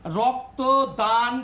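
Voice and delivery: রক্তদান শিবির said slowly, each part set apart; রক্তদান শিবির split slowly into its parts; word by word, slow. Shown as a demonstration. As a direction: separate রক্ত, দান, শিবির slowly. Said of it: "তিনটে শব্দের জোড়ে".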